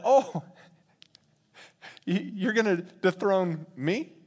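slow, understated disbelief; incredulous God. Acted. God hears the plot to dethrone him, slow disbelief. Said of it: "'cause as God hears that".

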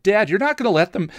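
high whiny son protesting; Donnie protesting. A narrator's reading. Donnie begs his father to stop them, high and whiny.

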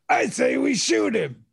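put-on high, slow nasal-free man-child voice; Pee Wee Herman. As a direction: play the giddy overgrown kid. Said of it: "that was my Pee Wee Herman".

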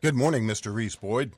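news anchor voice. Acted. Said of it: "That your, that your television news anchor voice".

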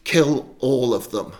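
yelled order. Acted. Saul commands his goons, yelled order. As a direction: press the order home, slowly and forcefully.

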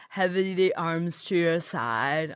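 yoga instructor. Retold or imitated. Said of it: "these new ways of talking".

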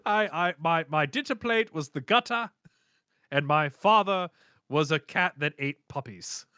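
a singer's voice. Retold or imitated. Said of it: "how I imagine Dio would have sounded".

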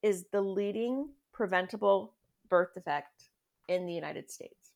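deliberate phrasing with pauses between chunks; careful, proper statement. Real, not acted. Advocate making sure listeners can hear it, careful statement. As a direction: state it properly, starting firm and settling down at the end. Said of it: "I wanna say this properly".

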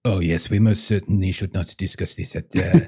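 put-on gracious host with a French accent; lightly French-accented hostess, unhurried. GM voices the host's wife.

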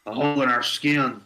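a bad hammed-up Southern accent; terrible Southern accent. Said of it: "that was a terrible Southern accent".

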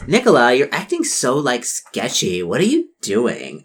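slow, condescending drawl; mean girl talking down; snooty popular girl. Acted. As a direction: look down on her. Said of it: "Charlotte's like".

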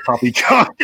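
hammed-up bad English accent; slow, fake English accent with a laugh in it. Newly bougie laptop owner showing off, bad English accent. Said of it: "speaking in a bad Lon-, English accent".

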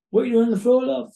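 breezy nurse asking from the doorway; imitating the nurse. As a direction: nurse finding a patient on the floor, casual imitation. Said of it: "That's exactly how they sound in my memory".

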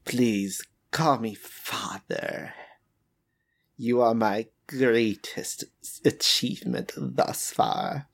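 lightly voiced creepy creator, slow; metallic voice filter. Villain father speaks to creation.

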